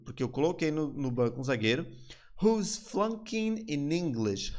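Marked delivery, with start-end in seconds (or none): 2.4-4.5 very slow, drawn-out phrase; slow demo. Shown as a demonstration. Teacher quoting the line to students, very slow. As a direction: stretch it for learners. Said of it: "Então ele falou".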